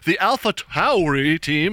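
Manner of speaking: "The Alpha Tauri team" spoken slowly, every syllable stretched; slow, precise mock announcer enunciation; overpronounced announcer. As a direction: parody an announcer showing off pronunciation. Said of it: "really overpronounces everything".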